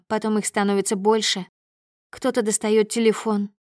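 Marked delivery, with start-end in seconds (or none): none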